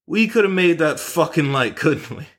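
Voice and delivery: a hint of a cheeky seven-year-old; quoting the kid. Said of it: "and I quote".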